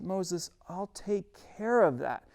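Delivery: God reassuring a nervous Moses, calm and slow. Acted. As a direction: settle him down gently and slowly. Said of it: "And God says".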